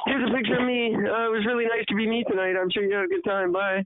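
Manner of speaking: high, put-on party hostess voice; self-obsessed hostess. Singer thanking party guests, self-obsessed hostess. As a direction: play a self-absorbed star seeing guests off.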